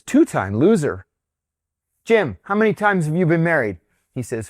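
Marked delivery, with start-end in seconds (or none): 0.0-1.1 retold scoffing question, pitch swooping on the words; incredulous scoff. Boss answering his worry about divorce, scoffing. 2.0-3.8 higher, retold call across to a colleague. Boss polling colleagues about marriages, calling out.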